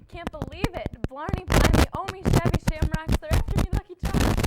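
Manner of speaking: loud leprechaun shouting about charms; hammed-up Irish leprechaun. Lucky Charms leprechaun act.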